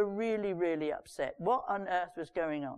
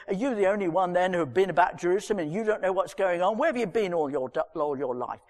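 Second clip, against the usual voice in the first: quick, slightly louder exasperated retort; irritated; 2 semitones lower, 4 dB louder, faster than usual. Acted. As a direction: snap back at the clueless stranger. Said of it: "I think they were irritated".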